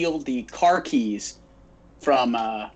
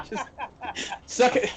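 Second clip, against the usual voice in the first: higher, sing-song taunting jeer; mock gloating taunt; 8 semitones higher than usual. Crew taunting the wrestler over his lost car, mocking jeer. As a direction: tease him like a schoolyard bully.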